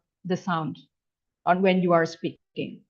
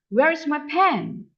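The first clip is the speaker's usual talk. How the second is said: PEN pitched up, then falling; stress on PEN; 5 semitones higher than usual. Shown as a demonstration. English teacher showing staircase intonation, noun PEN stressed. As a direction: lift the noun PEN above the usual pitch. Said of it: "they are categorized as noun".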